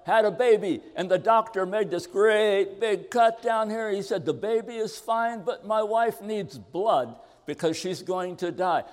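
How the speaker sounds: a husband pleading for blood, agitated; excited. Retold or imitated. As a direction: rush out the bad news, alarmed. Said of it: "He was all excited".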